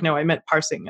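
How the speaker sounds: put-on Australian switching into an American accent. Correcting confused colleagues on passing versus parsing, American accent. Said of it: "I said it in the American accent".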